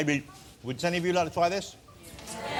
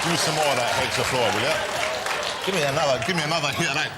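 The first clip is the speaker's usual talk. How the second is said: deep gas voice. Real, not acted. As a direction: lower voice after inhaling gas. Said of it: "Wait, wait, wait, now start talking".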